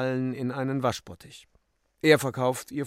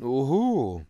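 drawn-out, louder exclamation; called out; 3 semitones higher, 5 dB louder than usual. A narrator's reading. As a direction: call it with a swooping pitch. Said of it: "rief im Lichtkern". (gedehnt ausgerufen)

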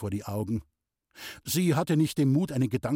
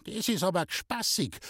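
grumbling; 6 semitones higher than usual. Acted. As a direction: grumble it sourly. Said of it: "knurrte Resel".

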